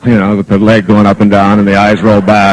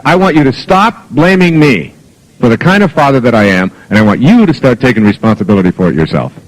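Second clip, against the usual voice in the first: retold parental exasperation, emphatic; exasperated. Father telling daughter to stop blaming him, mildly exasperated. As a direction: lay down the law, mildly exasperated. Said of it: "I said to her finally one day in exasperation".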